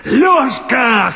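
high ringing call across the street; old watchman calling the boy; shouted name. Acted. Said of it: "кричит кто-то".

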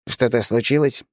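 halfling. Acted. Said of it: "раздался голос полурослика".

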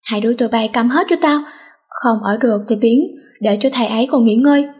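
fast, fed-up mock yell; a mild hammed-up yell at the bickering pair; angry shout. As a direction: snap at the two to shut up. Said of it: "lập tức hét".

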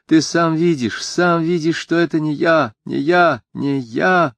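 выше и громче, с надрывом к концу; вырывается и кричит сквозь сухие рыдания; отчаянный крик. Acted. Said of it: "рыдая без слёз, кричала". (отчаянно, почти с рыданием)

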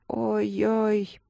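a mild groaning ой-ой; flustered groan; embarrassed moan. A narrator's reading. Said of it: "простонала Алина".

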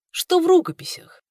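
brusque, slightly rude question; curt. A narrator's reading. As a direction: ask it a bit impolitely. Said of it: "не слишком вежливо спросил Цинфан".

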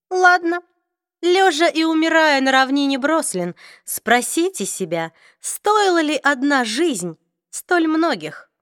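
drawn-out, aloof vampire lord; cold vampire voice. Acted. Raphael's parting threat.

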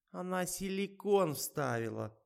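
high shrieking squeal. A narrator's reading. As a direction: squeal it out in protest. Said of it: "взвизгнула Катюха".

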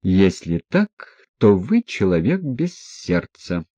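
usual speaking voice

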